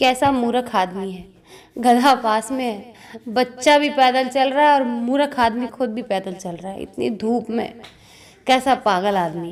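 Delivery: ordinary delivery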